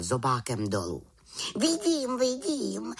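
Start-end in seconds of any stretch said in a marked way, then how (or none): 1.6-2.2 high little witch voice, falling at the end; the little witch answering, tune going down. A narrator's reading. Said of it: "řekla malá čarodějnice". 2.2-2.9 high little witch voice, rising at the end; the little witch repeating it, tune going up. A narrator's reading. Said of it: "řekla malá čarodějnice".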